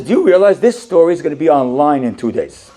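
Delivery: teasing through laughter; laughing jab. Retold or imitated. Syrian man teases the owner, laughing. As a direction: tease him with a chuckle.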